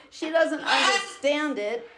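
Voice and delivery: shout-laugh in disbelief; exasperated laugh. Real, not acted. Angry client laughing in disbelief at his manager. Venting about money manager.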